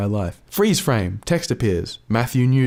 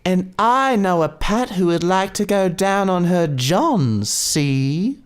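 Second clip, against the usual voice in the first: higher, sly leering voice; bawdy Bert; 8 semitones higher, slower than usual. Acted. Bert leering about Patty to the lads, sly. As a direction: lean into the dirty joke.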